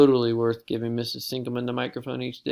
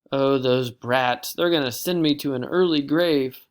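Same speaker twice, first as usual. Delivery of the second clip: weary complaint; 5 dB louder than usual. Acted.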